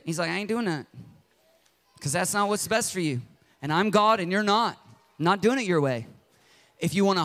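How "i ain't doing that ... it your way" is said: firm God. Retold or imitated. God answers the demanding believer, calm firm refusal. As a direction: say no plainly.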